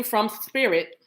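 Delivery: "spirit" with a long, lisped first s. Shown as a demonstration. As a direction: deliberately lisp the s in "spirit". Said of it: "do it again like that".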